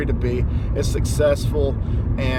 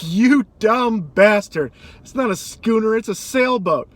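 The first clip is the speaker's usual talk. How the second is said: hammed-up exasperated man; mock angry man; 6 semitones higher, 4 dB louder than usual. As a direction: sneer at the kid. Frustrated man snaps at kid.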